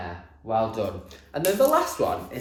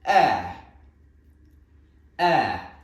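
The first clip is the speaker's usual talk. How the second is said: to the door; 5 dB louder than usual. Shown as a demonstration. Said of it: "say it to the door".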